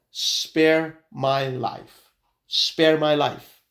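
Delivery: drawn-out words, acting a man begging; retold begging, very slow and deliberate; slow plea. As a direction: stretch each word of the plea. Dangling man begging God in story.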